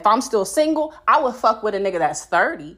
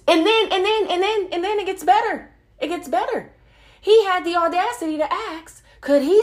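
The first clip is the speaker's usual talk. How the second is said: incredulous buildup; 10 semitones higher than usual. Real, not acted. Building up the story's punchline.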